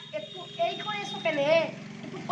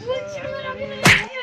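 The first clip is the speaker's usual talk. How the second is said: higher, shouted insistence; angry denial; 6 semitones higher, 5 dB louder than usual. Acted. Furious friend shouts he isn't angry. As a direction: yell that you're not angry. Angry man denying anger.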